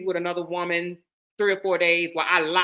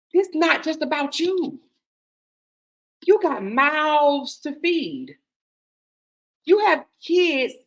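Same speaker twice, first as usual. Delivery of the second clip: higher, louder, slow and deliberate scolding; stern; 5 semitones higher, 4 dB louder than usual. Retold or imitated. To her heartbroken friend, a stern, slow, raised-voice scolding. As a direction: lay down the law, word by word. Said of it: "But then I got stern".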